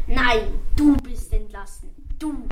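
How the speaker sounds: a touch of the king's fury; mild mock hiss. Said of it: "und zischte".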